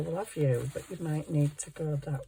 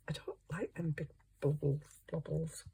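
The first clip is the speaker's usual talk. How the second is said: whispered grumble to herself; a soft, barely voiced complaint; 9 dB quieter than usual. Real, not acted. Crafter whispering to herself about bubbles in the glue.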